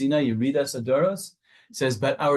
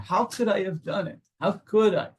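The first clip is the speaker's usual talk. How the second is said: outrage; 6 semitones higher than usual. Retold or imitated. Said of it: "There's gotta be a bit of an outrage".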